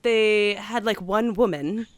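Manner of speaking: put-on British accent, haltingly held; bad London accent. Host describing the trailer, bad London accent. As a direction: keep up an amateur London accent. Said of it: "talk in a bad accent".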